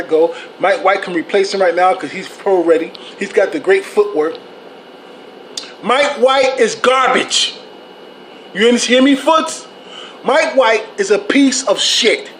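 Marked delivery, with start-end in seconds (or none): 5.8-12.3 drawn-out, emphatic condemnation; angry rant. Real, not acted. Ranting at content creators who back Mike White, angry and emphatic. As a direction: pitch up and stretch each word in disgust.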